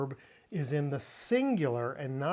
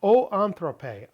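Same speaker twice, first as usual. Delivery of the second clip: "O anthrope" slow, louder and higher; emphatic calling out; 5 semitones higher, 8 dB louder than usual. Shown as a demonstration. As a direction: call out "O anthrope" like a solemn summons. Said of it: "The vocative case is the case of calling".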